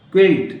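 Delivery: क्विल्ट said kilt, loud and clear; quilt with a k. Shown as a demonstration. Teacher stating क्विल्ट loudly as kilt. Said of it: "अब क्विल पढ़ते हैं इसको".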